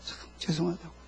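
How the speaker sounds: hushed, low apology; acted apology. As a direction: say sorry very softly, humbly. Voices apology before the congregation. (나직이 사과하는 흉내)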